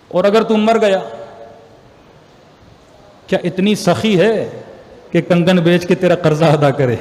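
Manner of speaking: a stern but measured inner voice; voice of conscience. Retold or imitated. Conscience warning Ansari about taking the money, slow and grave. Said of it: "میرے اندر سے آواز آئی، میرے ضمیر کی آواز آئی".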